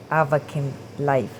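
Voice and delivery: AV-a-kin Life, first syllable of Avakin stressed; own pronunciation. Shown as a demonstration. Telling viewers how I say it, own pronunciation. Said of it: "but I say it".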